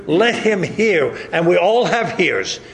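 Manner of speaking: normal talking voice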